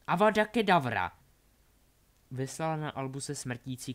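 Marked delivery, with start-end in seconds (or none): 0.1-1.2 loud, high killing curse; shouted curse. Acted. Delphi curses Albus, shouted. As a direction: hurl the curse at full voice.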